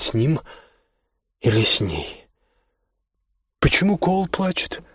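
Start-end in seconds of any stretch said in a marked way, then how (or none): 3.6-4.8 lightly voiced small girl, high; little girl. Bianca asking why her brother cries, childlike. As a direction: ask it like a puzzled little kid.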